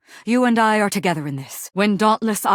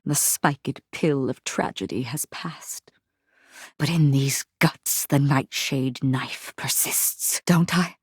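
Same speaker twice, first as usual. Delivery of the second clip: whisper; 5 semitones lower, 4 dB quieter than usual. Acted. Whispered lament.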